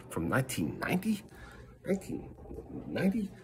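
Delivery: second word leaps up in disbelief; can't believe it, rising question; incredulous. Real, not acted. Disbelief at old video targeted.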